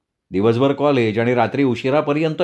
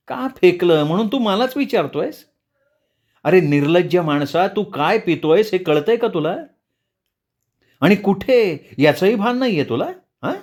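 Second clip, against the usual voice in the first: angry mother; 5 semitones higher than usual. A narrator's reading. Mother rebukes drunk son.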